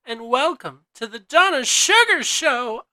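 slow, sultry diva greeting; femme fatale. Acted. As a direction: purr the hello to the darlings.

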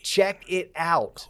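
breathy whispered plug; whispering. Acted. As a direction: whisper it like a secret.

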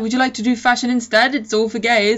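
lightly voiced pushy uncle; brash uncle voice. Voicing Uncle Stephen's offer.

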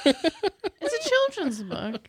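slow emphatic. Real, not acted. Protesting the story's mating part.

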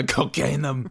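slow, drawn-out mock Russian accent; hammed-up Arnie-style Russian. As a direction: echo it in a laughing Russian accent. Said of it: "that was Russian".

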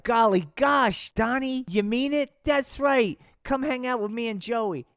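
high, loud gee-whiz excitement; thrilled wholesome kids; excited kid voice. Acted.

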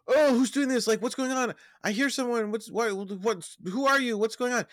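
high-pitched acted panic; mock freaking out. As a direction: play the blind captive freaking out. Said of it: "is freaking out, going like".

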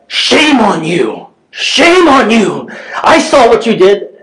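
high, slow mock scolding, breaking into a laugh; shrill-free but high mock yell at a stranger; imitating angry lady. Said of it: "this lady started yelling at me".

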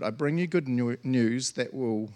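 tripping over the words, slowing down; a fumbled first go at the verse; stumbled read. Real, not acted. Preacher reading the angel's words and stumbling over them.

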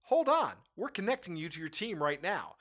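lightly voiced phone-system recording; imitated automated message. Host quoting a carrier's phone menu, lightly imitated recording. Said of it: "you get the message that goes".

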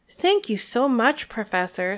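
a light hint of a squeaky voice; squeaky little voice. Flitwick thanking a sooty Umbridge, lightly squeaky. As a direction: lightly squeak it like a tiny professor. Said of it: "in his squeaky little voice".

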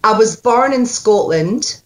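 "born" said as "barn", Scots "I was born in Scotland"; Scots accent. Shown as a demonstration. Coach modelling Scots line for the actor. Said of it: "No, when you go".

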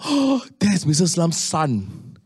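slow, drawn-out gossip reveal; hushed discovery. Retold or imitated. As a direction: let the secret slip out slowly, amazed. Gossiping kids discover the secret.

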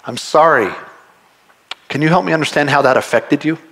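mean it, humbly; sincere apology. Shown as a demonstration. Preacher modelling a true confession to a hurt person, sincere. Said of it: "this is what confession looks like".

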